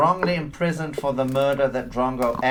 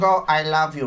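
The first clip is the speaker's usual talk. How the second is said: in his voice; 3 semitones higher, 5 dB louder than usual. Shown as a demonstration. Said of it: "Repeat it in my voice".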